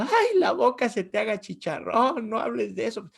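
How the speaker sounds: wife's mildly tearful protest, imitated; almost crying. Preacher's wife scolding his death talk, almost crying. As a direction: act out a nearly crying plea, lightly. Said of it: "mi esposa casi llorando".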